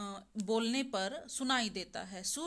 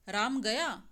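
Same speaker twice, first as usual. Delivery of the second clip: "राम गया" as a question, louder, pitch swinging up on गया; questioning intonation; 5 dB louder, slower than usual. Shown as a demonstration. Teacher showing students one phrase in three intonations, questioning. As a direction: ask "राम गया" with lifted, emphatic गया. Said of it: "प्रश्नवाचक और आश्चर्य दिखाया गया है".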